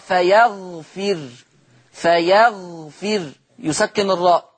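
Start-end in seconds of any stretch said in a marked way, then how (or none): 0.1-3.3 فيغفر slow, ending on a still ر; silent ra. Shown as a demonstration. Teacher showing Warsh's silent ra to class. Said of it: "يقرأ ورش بسكون الراء".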